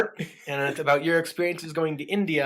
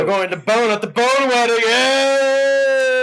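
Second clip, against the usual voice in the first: loud, high joking cheer; excited cheer; 9 semitones higher, 7 dB louder, slower than usual. Real, not acted. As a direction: cheer it like a party. Joking cheer about wedding.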